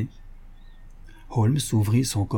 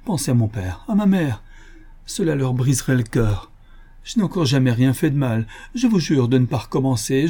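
frantic pleading; 3 semitones higher than usual. Acted. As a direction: beg like a man about to be jailed. Thief begs Holmes for mercy.

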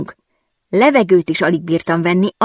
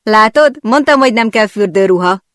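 laughing; 5 semitones higher, 6 dB louder than usual. Acted.

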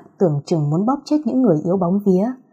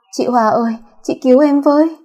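high, loud tearful begging; crying plea; 6 semitones higher, 5 dB louder than usual. Acted. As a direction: beg for help through tears. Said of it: "run rẩy bật khóc". (van xin trong nước mắt)

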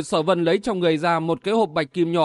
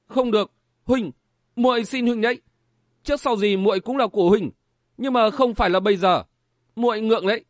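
put-on a young woman's voice, higher, begging him to stop; shy pleading girl; 4 semitones higher than usual. Young woman begs her suitor to wait, shy raised pleading voice.

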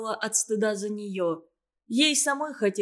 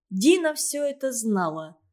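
ordinary delivery, nothing marked

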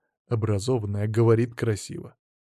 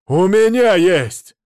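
higher, louder, slow shout; 7 semitones higher, 9 dB louder, slower than usual. Acted. Husband yelling at his wife about a lawyer, shouting. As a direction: snap back at full volume. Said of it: "ты опять кричишь".

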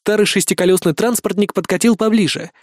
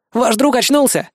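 glad; 7 semitones higher than usual. A narrator's reading. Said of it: "обрадованно произнёс он".

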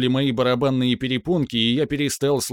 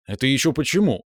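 surprised. Acted. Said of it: "удивлённо спросил я".

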